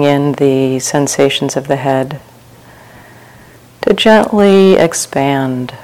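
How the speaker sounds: unhurried meditation guidance with long pauses; guided meditation. Real, not acted. Teacher leading retreat sitters through open awareness, calm guided meditation. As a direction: guide listeners gently into relaxation, phrase by phrase.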